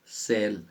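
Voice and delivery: सेल said as "sell" with a short E; model pronunciation. Shown as a demonstration. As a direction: say सेल clearly for the class. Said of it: "ए से उच्चारण हो गया ना".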